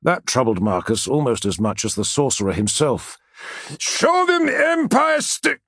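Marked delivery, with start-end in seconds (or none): 3.8-5.6 high, slow, strained battle cry; rally the men through rising fear; taut with worry. A narrator's reading. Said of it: "voice was taut with worry".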